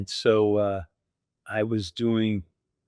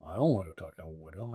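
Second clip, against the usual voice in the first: lower, softer mock whine; pilots whining; 6 semitones lower, 9 dB quieter than usual. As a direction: play the reluctant pilots grumbling low. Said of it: "And they're like".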